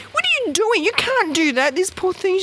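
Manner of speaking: high-pitched hysterical protest, volume held back; acted-out frantic outcry, very high; mock screaming. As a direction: re-enact screaming through pitch alone. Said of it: "I was screaming and carrying on".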